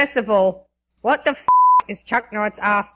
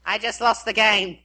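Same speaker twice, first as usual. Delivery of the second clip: lightly played Australian accent; Australian-accented delivery. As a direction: read it out like an Aussie. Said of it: "phrases that people want said with an Australian accent".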